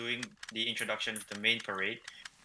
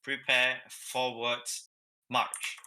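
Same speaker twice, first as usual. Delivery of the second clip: called marching order, word by word; drill command; much slower than usual. Shown as a demonstration. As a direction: call out each order with pauses. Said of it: "I will say, guard of honor".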